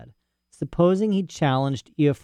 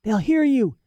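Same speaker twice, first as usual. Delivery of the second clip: frightened hush; 13 semitones higher, slower than usual. Acted. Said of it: "he whispered".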